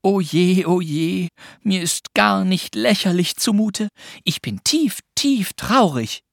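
put-on high girl's lament, dragging at the end; mock-sad murmur. A narrator's reading. Pünktchen starts the laughter game, murmuring in mock sadness. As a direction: murmur a playfully exaggerated woe. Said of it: "und murmelte".

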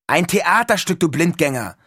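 high, loud and exasperated; excited teasing. A narrator's reading. Neil explains the play to a clueless roommate, excited teasing. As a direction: fire it back with eager impatience. Neil impatiently answers Todd's question.

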